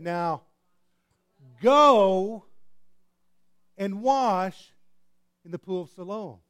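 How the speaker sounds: Jesus commanding, GO shouted high. Retold or imitated. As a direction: command him to go, booming. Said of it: "he said".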